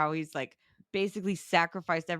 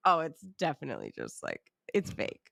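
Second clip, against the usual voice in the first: dismissive. Retold or imitated. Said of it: "they keep saying".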